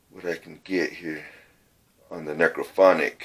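breathing hard after climbing. Real, not acted. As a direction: talk while winded. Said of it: "Sorry if I'm breathing hard".

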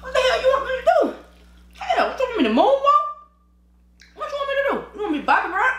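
high-pitched comic outburst; mock exasperated yelling. Refusing to perform for friends, mock exasperated yell. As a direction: rant way up high in comic protest.

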